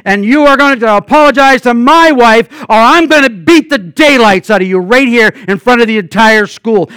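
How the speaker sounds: retelling a furious threat in the street; angry threat. Retold or imitated. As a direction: demand the apology like you mean the beating. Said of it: "And I was mad, and I meant it".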